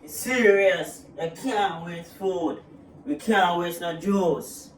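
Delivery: slow, stern lecturing; mom lecture. Acted. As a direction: spell it out slowly. Mom lectures slowly about waste.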